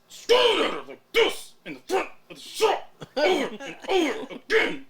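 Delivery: strained high voice, clenched teeth; a hammed-up strained squeal; loud mock stare sounds. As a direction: mimic the frozen staring guy loudly. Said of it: "I'm gonna get really loud when I do this".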